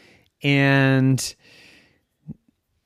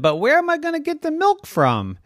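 whiny plea; 14 semitones higher, faster than usual. Acted. Nicholas pleads with pig.

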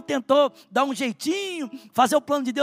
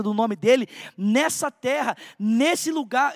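preaching. Acted. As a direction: press the promise on the congregation. Preaching with force. (pregação fervorosa, mais forte)

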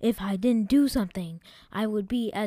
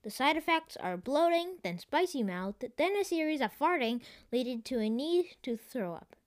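computer voice; 5 semitones higher, 4 dB quieter than usual. Acted. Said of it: "said the computer".

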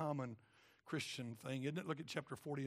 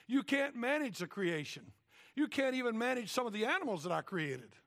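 louder, higher divine rebuke; thundering God; 7 semitones higher, 5 dB louder than usual. Acted. God rebuking Job about creation, louder and higher. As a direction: boom it down at Job. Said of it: "God goes like".

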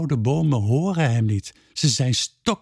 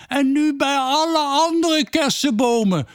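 mild call; 13 semitones higher than usual. A narrator's reading. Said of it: "roept Peerke".

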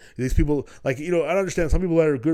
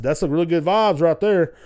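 sarcastic retort; 4 semitones higher, 8 dB louder than usual. Retold or imitated. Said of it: "and I said".

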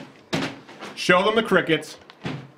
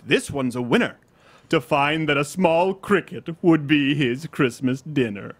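slow limerick recitation; limerick reading; slower than usual. Shown as a demonstration. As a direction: read it like a light poem. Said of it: "let me read this".

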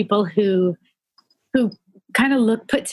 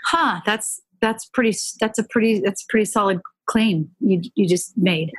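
gentle reply. Retold or imitated. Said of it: "I just gently said".

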